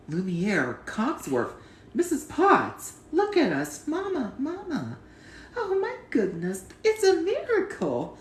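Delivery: child voicing the castle servants in turn; joyful household reunion scene; reciting the film ending. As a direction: play each servant with delight.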